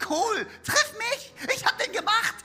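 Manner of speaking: God inviting you, a bit cool; laid-back divine invitation; God speaking. Pretend. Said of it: "sagt Gott zu dir".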